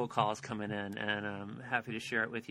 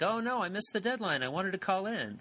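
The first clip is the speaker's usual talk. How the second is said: imitating whiny caller; 8 semitones higher than usual. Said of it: "everybody was like".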